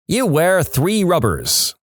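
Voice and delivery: slow, dim-witted student voice; dopey class answer. Retold or imitated. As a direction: drawl it like a clueless teen. Class's stock answer, quoted.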